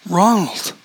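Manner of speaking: high, startled cry of his name; mother stunned to see her son. A narrator's reading. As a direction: gasp out his name in shock. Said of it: "Marjorie was stunned".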